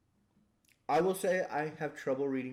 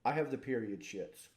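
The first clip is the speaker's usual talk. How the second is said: low-key, softer deadpan delivery; 3 semitones lower, 6 dB quieter than usual. Acted. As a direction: deliver it with a totally straight face. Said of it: "look at them very deadpan and go".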